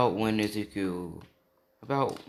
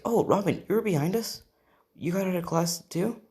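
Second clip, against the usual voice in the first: high-pitched, louder acted surprise; surprised greeting; 9 semitones higher, 5 dB louder than usual. Friends find Robin behind them, surprised greeting. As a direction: pitch it up, pleasantly caught off guard.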